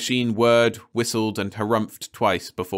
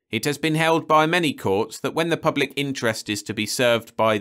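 pompous judge; 3 semitones higher than usual. Acted. Judge lecturing Perry, lightly voiced and pompous. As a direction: lay down the law with mild pomposity.

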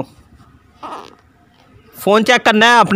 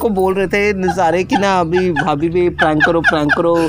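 laughing explanation; 4 semitones lower than usual. Real, not acted. Telling his wife why he pranked her, laughing.

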